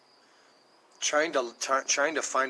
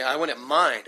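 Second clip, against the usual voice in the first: casual offhand; 5 dB louder, slower than usual. Shown as a demonstration. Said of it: "I even said it like that".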